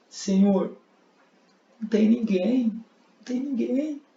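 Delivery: voz bem mais aguda e chorosa, de mulher; mulher chorando. Acted. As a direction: responda como mulher aflita, quase em lágrimas. (mulher perdoada fala a Jesus chorosa e aguda)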